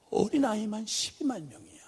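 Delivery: hushed repeat of "어린아이만 십이만 명이야"; whispered. Shown as a demonstration. Preacher whispering God's words to the congregation. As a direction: drop to a whisper to let it sink in.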